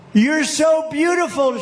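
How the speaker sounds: a touch of a delighted cry, pitched high; mild adoring cry. A narrator's reading. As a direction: gush over the snake, lightly. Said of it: "she cried".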